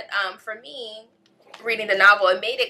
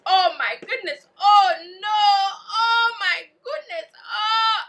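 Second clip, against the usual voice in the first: reading reaction, building; 4 dB louder than usual. Retold or imitated. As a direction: act out gasping at the plot, building to a wail. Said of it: "That was me, literally".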